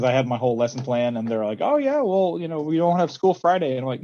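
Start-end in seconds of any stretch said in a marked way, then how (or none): 1.6-3.7 breezy high mock student voice; high, airy teen imitation; mimicking students. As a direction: toss it off like it's no big deal. Students casually breaking news.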